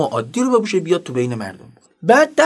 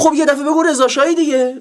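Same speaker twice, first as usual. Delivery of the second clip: high-pitched disbelieving outburst; mock terrified exasperation; acted peak fear; 8 semitones higher than usual. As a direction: play a frightened man blurting it out. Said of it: "بعد اوج ترس گفت".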